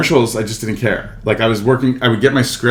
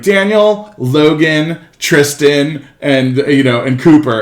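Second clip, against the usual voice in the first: raised roll-call voice; calling out names; 5 semitones higher, 4 dB louder, much slower than usual. Acted. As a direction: call each name out, pitched high. Casting staff calling out names.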